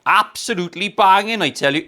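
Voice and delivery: lightly put-on Welsh accent; a quick jokey Welsh voice. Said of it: "using casual racism towards the Welsh today".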